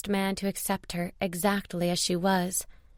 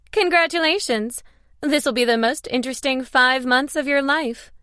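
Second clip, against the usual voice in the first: high, loud, delighted cheer; gleeful congratulations; 6 semitones higher, 5 dB louder than usual. A narrator's reading. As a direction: congratulate them with gusto. Jerry laughingly congratulates the couple.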